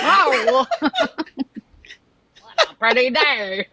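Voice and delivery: high chirpy sing-song greeting; bright squeaky cartoon voice; bright squeaky sing-song welcome. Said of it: "do your character voice right now".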